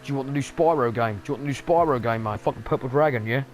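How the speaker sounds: cheeky street seller pushing the new Spyro game; dodgy hawker selling games. Retold or imitated. Game company as a street hawker, cheeky spiv pitch. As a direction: hustle it like a market spiv, rising at the end. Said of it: "They're like".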